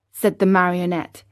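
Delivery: ordinary delivery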